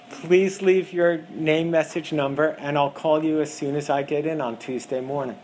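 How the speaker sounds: "leave" stretched, slow and pointed; slow, deliberate. Shown as a demonstration. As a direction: spell it out slowly for the caller. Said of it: "heard a message seven times that says".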